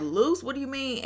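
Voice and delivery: a puzzled, questioning "Loose?"; mock-confused retelling. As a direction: play it baffled, half-asking.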